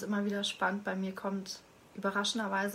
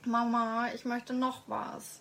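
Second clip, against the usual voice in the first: put-on child voice; 3 semitones higher, 4 dB louder, slower than usual. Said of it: "das Kind, was Vanessa jetzt spielt".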